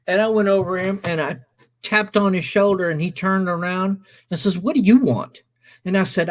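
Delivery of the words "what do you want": irritated challenge. Retold or imitated. Retold confrontation with the guitarist.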